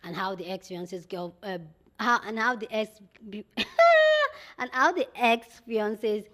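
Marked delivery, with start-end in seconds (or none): 3.0-4.5 high, loud burst of laughter. Real, not acted. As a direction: break off into a high squealing laugh. Breaks off mid-sentence in laughter.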